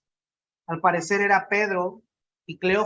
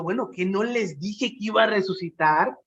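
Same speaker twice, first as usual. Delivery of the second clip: casual inner voice. Retold or imitated. Jesús ha de haber estado pensando.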